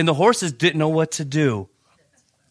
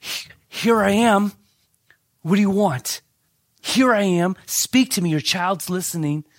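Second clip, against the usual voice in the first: a lightly voiced eager child, higher; little Samuel; 4 semitones higher than usual. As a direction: pastor as young Samuel, a touch higher and eager. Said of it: "I feel like little Samuel".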